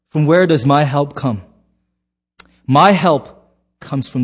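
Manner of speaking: measured, solemn psalm reading; scripture reading. Acted. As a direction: read the psalm slowly, dwelling on key words. Reads the psalm aloud.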